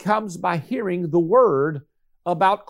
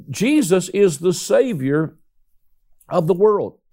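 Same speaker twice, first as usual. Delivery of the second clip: bold declaration. Shown as a demonstration. Preacher declaring salvation to the congregation as boldly as he can, bold. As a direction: state it boldly, spacing out the words. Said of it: "say it as bold as I know how".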